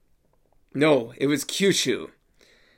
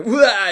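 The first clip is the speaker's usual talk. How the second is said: overdramatic wail; 5 semitones higher, 5 dB louder than usual. Shown as a demonstration. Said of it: "Overdramatic there".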